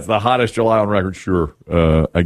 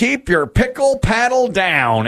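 host reveal; 10 semitones higher, slower than usual. Acted. Host reveals matching answer.

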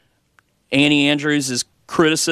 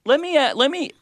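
high, eager interruption; excited; 11 semitones higher than usual. Real, not acted. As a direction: jump in with a point. Cuts in, raised pitch.

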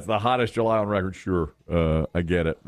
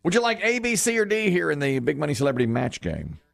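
game show host; 3 semitones higher than usual. Acted. Radio host greeting the caller with game show pep. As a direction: work the contestant like a TV quiz host.

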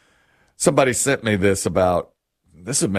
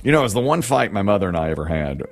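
ordinary talk

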